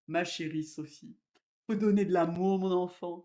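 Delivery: loud, emphatic affectionate aunt; imitating an aunt. Aunt advising her niece Sophie to give love, emphatic imitation. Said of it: "J'ai une tante qui disait".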